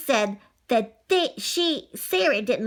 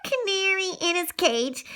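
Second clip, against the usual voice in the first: excited storyteller; 14 semitones higher than usual. A narrator's reading. Excited telling of cats' mischief.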